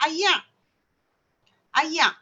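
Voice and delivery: "ayak" with a final k in place of r; Kedah ayak. Shown as a demonstration. Lecturer showing students the Kedah word for air. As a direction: clip "ayak" off with a k at the end. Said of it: "Orang Kedah kata".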